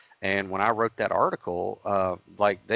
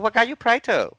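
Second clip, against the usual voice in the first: put-on Asian accent; 7 dB louder than usual. Lady asking which god he prays to, in an Asian accent. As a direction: draw it out high in a mock Asian accent. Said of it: "I'm gonna do an Asian accent".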